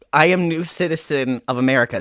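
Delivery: put-on tentative stab at a Scottish accent; failed Scottish accent. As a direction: attempt Scottish and miss. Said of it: "I can't do Scottish with this".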